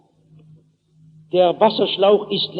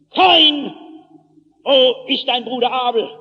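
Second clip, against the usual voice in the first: raised divine call, easing off after the name; lightly voiced God calling a culprit to account; Stimme Gottes; 4 semitones higher than usual. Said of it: "Und nun spricht Gott". (mahnender Ruf Gottes)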